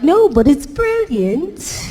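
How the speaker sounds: high, drawn-out mock English insistence; English audience. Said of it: "They were like".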